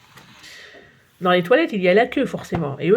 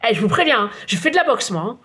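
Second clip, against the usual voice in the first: nervous shout; faster than usual. Acted. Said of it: "crie-t-il".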